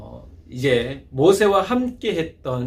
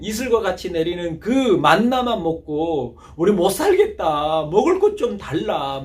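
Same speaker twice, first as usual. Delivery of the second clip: 불평하는 백성; 4 semitones higher than usual. Retold or imitated. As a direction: moan like grumbling Israelites craving food. 백성들의 불평을 흉내냄. (투덜대며 불평하는 백성 흉내)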